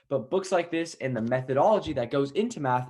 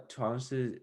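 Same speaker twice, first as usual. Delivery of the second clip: halting Mandarin with an English accent; foreigner speaking mandarin; 4 dB quieter than usual. Real, not acted. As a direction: stumble through Mandarin, non-native. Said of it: "my Chinese is not that good".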